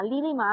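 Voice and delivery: লিলিমা with an L in place of the N; wrong name said. Shown as a demonstration. Mimicking how people mispronounce her name as লিলিমা. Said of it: "বেশিরভাগ মানুষই বলে লিলিমা".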